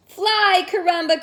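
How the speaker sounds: urgent cheering cry. Acted. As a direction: call out to the falling cat. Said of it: "cried Bijou".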